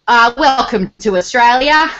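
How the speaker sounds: lightly imitated cabin announcer, slow delivery; plane announcement. Returning Australian hears the plane comms, lightly mimicked announcement. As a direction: imitate an airline welcome in slow, drawn-out words. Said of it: "over the comms and the plane".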